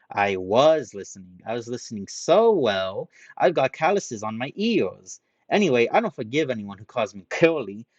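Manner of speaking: loud indignant rant. Acted. Ranta ranting at Haruhiro, loud and indignant. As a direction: keep the anger boiling.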